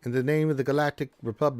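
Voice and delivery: high frog voice playing an evil emperor; Palpatine as Kermit. Showing chat Dark Lord of the Sith Kermit. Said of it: "Dark Lord of the Sith Kermit".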